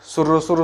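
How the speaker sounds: quick light slurps through the lips; slurping tea sounds. Shown as a demonstration. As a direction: imitate sipping hot tea, sur sur. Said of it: "चुस्की मतलब जैसे कि".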